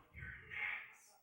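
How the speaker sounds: imitated backstage whisper; hushed, voiceless murmur. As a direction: tip off the next act under your breath. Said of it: "We don't have to whisper".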